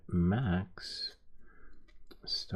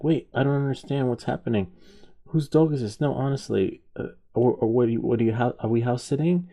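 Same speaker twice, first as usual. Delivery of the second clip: loud, raised-pitch questioning; acted incredulous spouse; bewildered protest; 6 semitones higher, 6 dB louder than usual. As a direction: play a baffled wife demanding answers. Wife demands an explanation.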